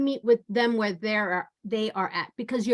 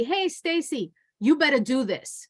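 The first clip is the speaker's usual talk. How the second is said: a sharp, demanding "Hey, Stacy", pitched up; bossy attitude; 2 semitones higher than usual. Shown as a demonstration. Trainer demos a bossy tone to a coworker, pushy attitude. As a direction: order her around with attitude. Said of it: "I already have an attitude in my voice".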